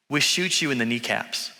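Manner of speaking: low, understated threat; stern, serious. Retold or imitated. Man warning a tourist accused of lying, stern and serious. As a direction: deliver the threat quietly serious. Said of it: "it got real serious real quick".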